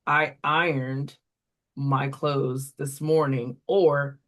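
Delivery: "iron" said slowly in sample sentences; slow teacher model. Shown as a demonstration. Teacher modelling iron in sentences for a student, slowly. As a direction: read the example sentences slowly for kids. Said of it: "what to do if the correction doesn't work".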